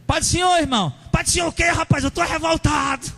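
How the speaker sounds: angry shouting believer. Retold or imitated. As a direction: yell it like a furious church member. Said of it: "Eu escutava isso aí".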